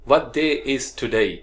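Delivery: day stretched slowly with a clear ei; slow model sentence. Shown as a demonstration. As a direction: say it slowly so students repeat. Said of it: "उसके बाद है हमारे पास day". (धीमा अभ्यास वाक्य)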